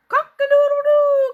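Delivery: loud, high, slow cock-a-doodle-doo; rooster crow. Acted. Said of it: "called Cocky Locky".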